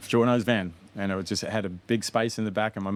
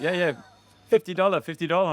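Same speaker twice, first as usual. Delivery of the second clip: Mexican hawker; 9 semitones higher, 4 dB louder than usual. Retold or imitated. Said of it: "some Mexican guys like".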